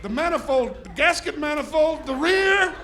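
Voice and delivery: put-on overly formal posh-sounding drunk; slow, careful fake grown-up voice; sober voice. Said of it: "I had the best sober voice".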